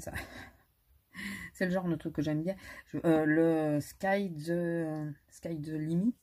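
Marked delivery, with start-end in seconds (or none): 3.2-6.2 Sky the Limit in a French accent, slow; the English name said the French way. Real, not acted. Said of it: "Excusez-moi pour mon, mon accent".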